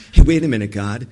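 a loud "Hey" to stop God; calling out. Retold or imitated. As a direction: call out to God to wait. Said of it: "Do you know what he's thinking now?".

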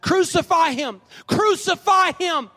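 high, slow, loud shout, rising on the repeat; crowd's shout. Acted. Crowd shouts back at Pilate, high drawn-out shout. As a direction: shout it drawn out, like a mob demanding death. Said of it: "They shouted back".

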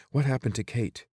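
jolted by the news; alarmed what. A narrator's reading. Corvin startled by news of Kate, sharp and high.

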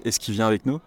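"Est-ce qu'il" said as "ess-ki", the L dropped; casual spoken French. Shown as a demonstration. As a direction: say it like a native, quick and run together.

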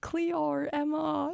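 high, drawn-out mock Australian vowels; Australian accent. Showing the goofy rehearsal voice, exaggerated Australian accent. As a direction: overdo a comic Aussie accent. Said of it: "It's not just like".

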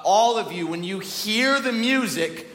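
high, slow, lightly voiced imperious king; egomaniac king. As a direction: demand worship, drawing out the words. Voices the egomaniac king's demand.

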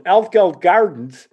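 loud, high, slow echo question; drawn-out mock astonishment; retold disbelief. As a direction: imitate a dad's incredulous repeat. Father reacts to bad location.

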